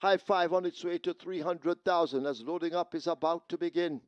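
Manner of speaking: loud, high PA call; urgent call over the track speakers; through loud speakers. Real, not acted.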